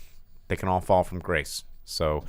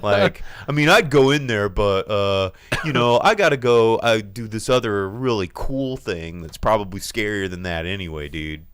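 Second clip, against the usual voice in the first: mock bravado; 5 dB louder than usual. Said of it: "that's what scared people say".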